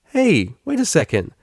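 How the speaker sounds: protest, hurt and defensive. Acted. Psyche defending himself to Octavia, loud. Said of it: "he said defensively".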